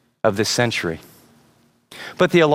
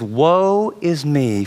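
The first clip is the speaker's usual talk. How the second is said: slow, drawn-out lament; mock-prophetic woe, very slow; acted lament; much slower than usual. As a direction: stretch it out like Isaiah's cry of woe. Voicing Isaiah's awed lament.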